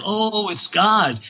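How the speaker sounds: awed worshipper. Retold or imitated. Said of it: "they were going like".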